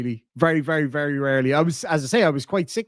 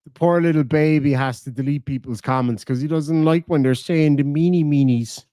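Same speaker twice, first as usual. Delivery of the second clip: mock pity; 2 semitones lower than usual. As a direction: coo mockingly at a poor little baby. Mocks a rival as a baby.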